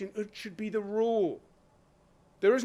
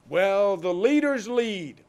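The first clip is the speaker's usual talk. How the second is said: mocking quote; 5 dB louder, slower than usual.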